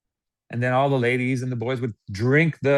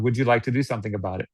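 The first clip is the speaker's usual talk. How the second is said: scripted question; faster than usual. Shown as a demonstration. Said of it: "here's the second question, write it down".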